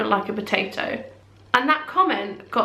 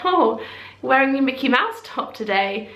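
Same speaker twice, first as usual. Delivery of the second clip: mocking; 3 semitones higher than usual. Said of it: "in what I perceived to be a mocking or negative way".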